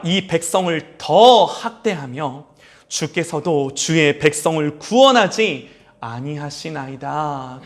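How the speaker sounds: slow, solemn reading of "주여"; scripture reading. Acted. Pastor reading Moses' plea aloud, solemn and slow. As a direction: read the verse slowly and gravely.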